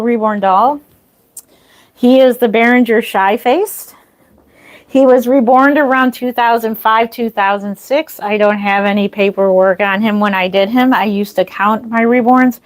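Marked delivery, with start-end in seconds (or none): 5.3-12.6 breathless from the stairs; out of breath. Real, not acted. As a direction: talk while catching your breath. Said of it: "Sorry, I'm out of breath".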